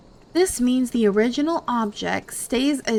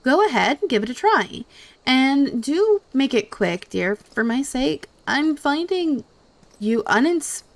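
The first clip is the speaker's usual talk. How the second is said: haughty voice; 4 dB louder than usual. Acted. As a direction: look down your nose at them. Reading snooty NPC dialogue aloud.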